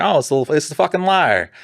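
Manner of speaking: high mocking jeer at the liar; mock-nasty cop greeting; sneering taunt. Repeats the detective's taunt.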